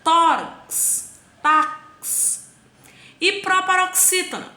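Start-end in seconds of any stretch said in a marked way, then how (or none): 0.0-2.5 TÓ in tórax punched high and loud; stressed first syllable. Shown as a demonstration. Teacher gives examples, first syllable punched loud and high. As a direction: hit the first syllable of each word, tórax and tax. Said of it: "A sílaba tônica é a penúltima".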